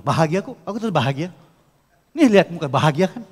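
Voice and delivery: loud, fast, insisting bahagia kok; forced happy claim. Shown as a demonstration. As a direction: sell a fake happiness, pushing it. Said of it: "tapi gini ngomongnya".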